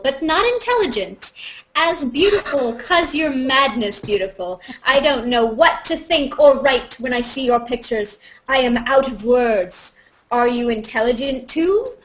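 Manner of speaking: slow, theatrical read of a fan letter; dramatic reading. Acted. Host reads a fan's odd letter aloud, lightly hammed. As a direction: read it like a love poem, hammed up. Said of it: "that needed a soundtrack".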